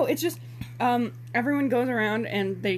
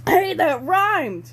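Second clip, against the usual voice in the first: higher, louder, slow and drawn out; delighted exclamation; 8 semitones higher, 8 dB louder, much slower than usual. Real, not acted. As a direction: savour the rhyme gleefully. Delighted by the rhyme.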